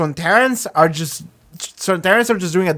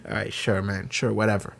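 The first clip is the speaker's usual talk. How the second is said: laughing dismissal; 8 semitones lower, 9 dB quieter than usual. Real, not acted. Dismissing the random villain.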